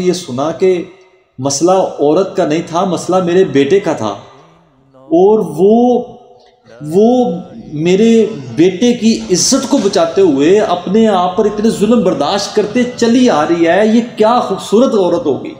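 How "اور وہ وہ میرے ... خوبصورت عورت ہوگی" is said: moved exclamation. Acted. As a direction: swell with wonder at her sacrifice. Preacher's moved climax of tale.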